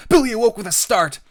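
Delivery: loud, high burst of narration; startled narration. A narrator's reading. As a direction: jolt the listener suddenly. Sudden jolt in the story.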